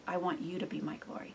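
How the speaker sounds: hushed, breathy plea to God; whispered prayer. Real, not acted. Praying quietly to God, whispered.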